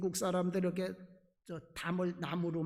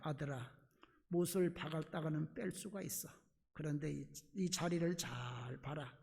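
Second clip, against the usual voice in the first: gentle father; 5 semitones lower, 5 dB quieter than usual. Acted. Father gently teaches his son.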